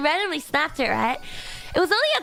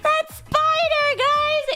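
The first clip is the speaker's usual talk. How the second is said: excited; 11 semitones higher, 4 dB louder, much slower than usual. Real, not acted. Recalling the scary spider.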